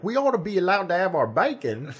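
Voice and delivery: whiny Aussie demand for bacon; mock Australian. Mocking angry Aussie Facebook poster, Australian accent. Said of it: "they'd be like".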